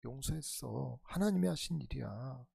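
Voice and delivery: soft, low voice, lightly acted reassurance; gentle forgiveness. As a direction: quietly play a forgiving brother. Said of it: "여러 차례 요셉이 얘기했잖아요. 용서했다고". (낮고 조용하게 용서하는 말투)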